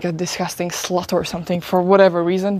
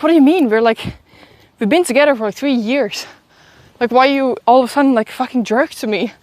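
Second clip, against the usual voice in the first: higher, louder retold bewilderment; imitating her own confused pleading; confused protest; 4 semitones higher, 3 dB louder than usual. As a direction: act out a baffled argument with an ex. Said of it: "I was so confused".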